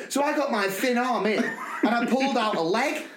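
barely holding in laughter; retold with laughter; laughing retelling. Quoting her piglet story.

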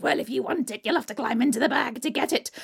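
high coaxing hag, then quick; troll hag. Acted. Troll hag lures Butterball into the bag, coaxing. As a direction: lure him into the bag.

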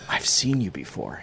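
imitating a hushed confider, slow and low; really quiet. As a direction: speak softly and slowly, as if confiding. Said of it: "she gets really quiet".

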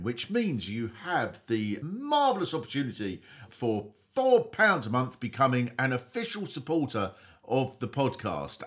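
hammed-up grand sales pitch with big swings up and down; mock ad read. Host pitching Patreon to podcast listeners as a hammed-up ad read. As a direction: sell it like a pompous ad, then drop low and dry on the asides.

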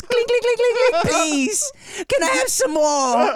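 high, pleading voice, rattling the bars; high hammed-up prisoner plea; begging prisoner baby.

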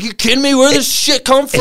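high mock-indignant dad voice; imitating dad. Son mocking his dad's disbelief, high mock-outraged voice. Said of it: "He's like".

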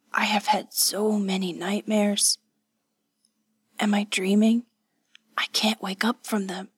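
faint, half-whispered invalid's voice; clear but weak. A narrator's reading. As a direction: speak weakly, as if waking from nightmares. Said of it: "Hatsumi's voice was clear, but still weak".

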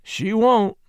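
high, scornful dismissal; scornful skepticism. A narrator's reading. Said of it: "said Dell in scornful skepticism".

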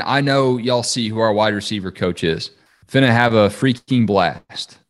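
flat text-to-speech reading voice; automated voice. Shown as a demonstration. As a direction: read it like a TikTok robot voice. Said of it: "like one of those automated voices reading a".

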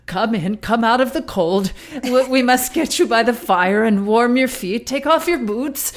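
lightly voiced old-fashioned host; a hint of a quaint hostess; crazy voice. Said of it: "they've gotta come in with a crazy voice".

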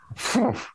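weary sit-down exhale; breathy puff of an old man settling; old man's sigh. Retold or imitated. Comedian imitating his fart as an old-man sigh. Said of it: "like an old dude sound sitting down".

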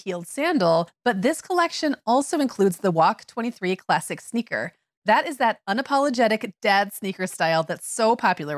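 upbeat sponsor read. Acted. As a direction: sell it like a radio ad.

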